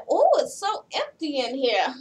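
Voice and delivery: light impression of a hoarse smoker; Big Ange. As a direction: try on a cracking, throaty smoker's voice. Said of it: "Ange is like".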